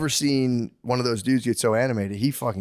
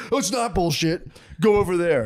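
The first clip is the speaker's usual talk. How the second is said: raised, higher mock yell; retold scream; 6 semitones higher than usual. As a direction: imitate an angry TSA agent ordering you off. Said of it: "he screamed it".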